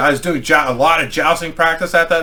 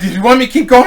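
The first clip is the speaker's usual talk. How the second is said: raised pitch, louder quoted question; imitating the piercer; 8 semitones higher, 6 dB louder, much faster than usual. Piercer asks whether to go on, imitated. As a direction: put on her voice, higher and louder.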